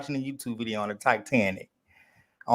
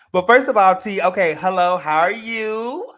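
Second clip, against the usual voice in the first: loud greeting; 3 semitones higher, 9 dB louder than usual. Real, not acted.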